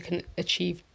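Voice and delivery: hoarse, just-woken-up voice; croaky morning voice. Real, not acted. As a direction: talk with a croaky morning throat. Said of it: "Excuse the morning voice".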